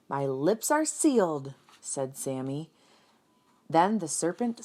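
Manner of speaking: lively storybook reading voice; animated picture-book narration; reading to children. A narrator's reading. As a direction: read it out like a teacher to kids.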